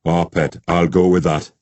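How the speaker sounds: broad Geordie, playfully put on; thick Geordie accent. A narrator's reading. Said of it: "in his thickest Geordie accent".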